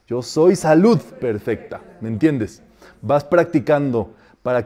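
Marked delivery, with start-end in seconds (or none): 0.1-1.8 "salud" lifted and punched; stress on SALUD. Shown as a demonstration. Teacher varying the decree for students, emphatic "salud". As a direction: drive the weight onto "salud". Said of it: "El asunto es que te agarre".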